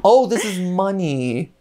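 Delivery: very high, giggling bids; laughing. Real, not acted. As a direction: squeak the numbers through laughter. Laughing while mock-bidding.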